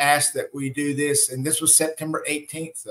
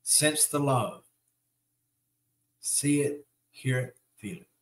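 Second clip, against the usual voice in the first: hushed; 7 dB quieter than usual. Acted. Meditation, hushed guidance.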